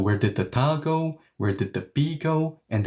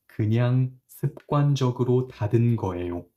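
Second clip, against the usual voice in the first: casual habitual tone; much faster than usual. Shown as a demonstration. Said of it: "Hey, I just closed it habitually".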